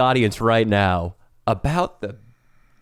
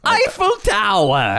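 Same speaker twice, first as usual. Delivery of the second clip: higher, slow hammed-up French; bad French accent; 6 semitones higher, slower than usual. Shown as a demonstration. Showing off his French to a doubtful co-host, hammy French accent. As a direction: draw it out in cartoon French. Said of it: "Oh, I'm pretty good".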